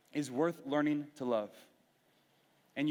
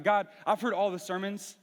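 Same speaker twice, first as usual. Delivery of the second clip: louder, higher mocking recital of sermon lines; a half-mock rant at God; venting mad; 5 semitones higher, 4 dB louder than usual. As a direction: rattle off the clichés with frustration. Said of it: "I'm mad because I'm like".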